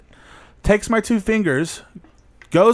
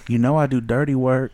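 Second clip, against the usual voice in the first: sultry stripper line; 5 semitones lower than usual. Retold or imitated. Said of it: "she even hit that breath at the end".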